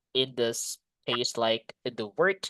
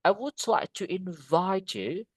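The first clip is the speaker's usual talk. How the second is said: "invite" picked out on "vite" within the sentence; stress on second syllable; 3 semitones higher than usual. Shown as a demonstration. Teacher giving an example sentence, stress on "vite" in "invite". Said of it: "penekanannya di suku kata yang kedua".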